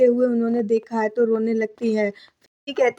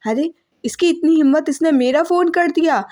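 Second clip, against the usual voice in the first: raised, higher, outraged at the cheek of it; indignant outrage; 4 semitones higher, 3 dB louder than usual. Retold or imitated. Manju ji fumes to herself when Devika cuts her call, indignant and raised. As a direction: huff in disbelief at being hung up on.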